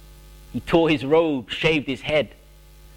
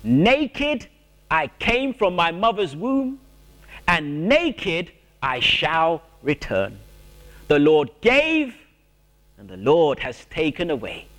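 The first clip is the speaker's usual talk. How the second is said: bold declaration. Retold or imitated. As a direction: proclaim it standing tall. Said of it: "and declare".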